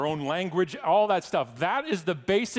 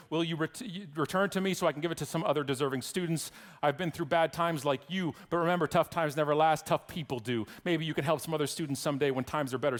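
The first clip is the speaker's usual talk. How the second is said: reading a kind letter. Shown as a demonstration. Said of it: "he writes, and he says".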